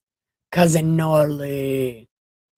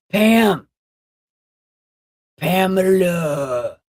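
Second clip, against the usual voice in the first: calling out; 4 semitones higher, 5 dB louder, slower than usual. Acted. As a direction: call the name out loud. Calling out to a viewer.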